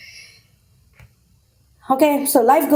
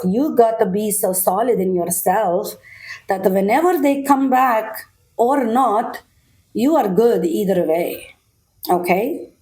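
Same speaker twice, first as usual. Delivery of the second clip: a tarot reader puts on a playful Russian accent; 2 semitones lower than usual. Viewer gets advice in a lightly put-on Russian accent. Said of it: "If I say it in a Russian accent".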